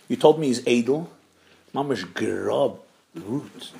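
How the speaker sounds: hushed, low-voiced complaint; retold whisper. Woman privately complains to matchmaker about the groom, mock whisper. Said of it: "she whispers to the shadchan".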